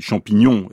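champignon with weight on its last syllable; final-syllable stress. Shown as a demonstration. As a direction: lean on the end of champignon. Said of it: "La dernière syllabe est plus forte". (champignon, accent sur la dernière syllabe)

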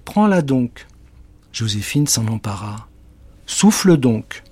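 lightly voiced witch; coaxing witch. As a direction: tell her to take and blow. Witch urges girl.

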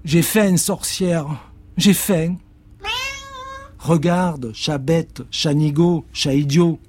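voix très aiguë, plaintive puis moqueuse; réplique aiguë. Acted. Cat whines, witch. (le chat geint, la sorcière le traite d'idiot)

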